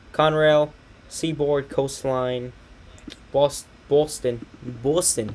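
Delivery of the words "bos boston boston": attempted Boston accent on the name; slightly hammed Boston accent. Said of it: "I'm doing the Boston accent".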